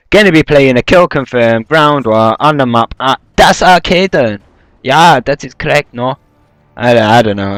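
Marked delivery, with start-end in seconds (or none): 0.1-6.2 mock German accent. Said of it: "trying to do the German accent".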